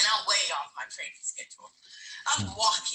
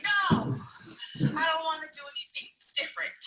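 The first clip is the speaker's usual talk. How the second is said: mock tantrum whine; 5 semitones higher than usual. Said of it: "starts crying and whining and kicking and screaming".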